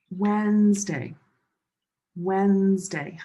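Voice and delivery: Wednesday as two syllables, WENZ-day; silent D and E. Shown as a demonstration. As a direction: say Wednesday slowly with the first D and middle E silent. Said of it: "the E here are silent".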